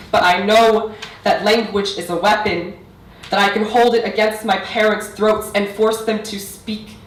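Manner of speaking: building, emphatic poetry recital; spoken-word poetry. Acted. Poet reciting to parents and audience about mother tongue, spoken-word delivery. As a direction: press through the lines, then pause for weight.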